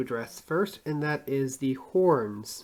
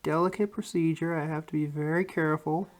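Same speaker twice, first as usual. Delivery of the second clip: holding breath; 4 dB quieter than usual. Real, not acted. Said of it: "Excuse me while I'm holding my breath".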